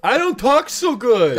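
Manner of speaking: dopey voice. Acted. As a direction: say it like someone who can't speak well. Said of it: "terrible at speaking".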